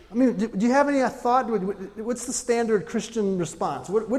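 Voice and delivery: high, loud push to the crowd; preacher loudly challenging the congregation; loud challenge. Real, not acted. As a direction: demand an answer from the room.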